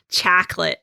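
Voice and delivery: mock American "chocolate" with a flat "chack-lit" vowel; imitated American accent. Retelling German colleague mocking Americans, imitated American accent. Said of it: "hilarious to hear an American accent".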